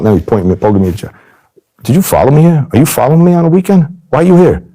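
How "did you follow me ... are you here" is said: retold angry accusation. Mobster poking his chest at the game: high angry demands. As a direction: hammer him with accusing questions.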